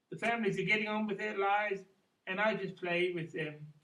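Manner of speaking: halting spoken verse after singing; poem recital. Acted. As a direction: recite it with pauses between short phrases. Continues the poem more spoken.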